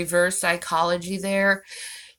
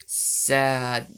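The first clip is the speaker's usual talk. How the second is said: breathy whisper of mock pity; sarcastic whispered sad; 8 semitones lower, 3 dB quieter than usual. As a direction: whisper it like a pitying aside. Mock pity after reading comment.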